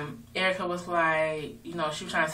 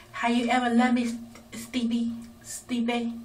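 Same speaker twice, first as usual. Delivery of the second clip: mock pleading; 6 semitones higher than usual. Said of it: "She was like".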